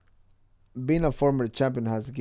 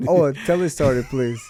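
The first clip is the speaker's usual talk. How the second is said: loud, excited urging; eager plea; 4 dB louder than usual. Real, not acted. Friend loudly urging the host to tell the story, excited. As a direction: beg him to tell it, loudly.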